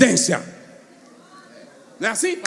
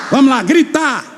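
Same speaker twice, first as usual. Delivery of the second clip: shout it. Shown as a demonstration. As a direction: urge the congregation to shout "gritar". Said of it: "Não, mas cadê o grito?". (gritando "gritar" com força)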